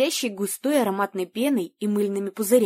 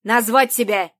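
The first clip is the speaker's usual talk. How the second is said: distorted loudspeaker command; 5 dB louder than usual. Acted. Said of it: "потребовал он".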